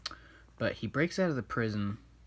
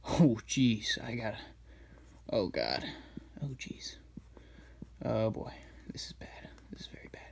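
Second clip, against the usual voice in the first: mock panic sinking into a frightened whisper; fret, then hush it to a scared whisper; panicked bird; 3 dB quieter than usual. Bird fleeing the escaped villain, whispering in mock panic.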